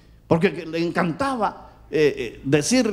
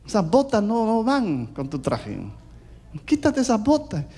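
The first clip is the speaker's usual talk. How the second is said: disapproving wife; 6 semitones higher than usual. Acted. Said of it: "Y ella me decía".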